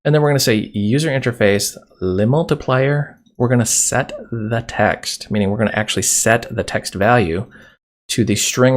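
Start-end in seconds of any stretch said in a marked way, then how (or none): 2.0-3.2 mock French accent. Shown as a demonstration. Repeats his French joke.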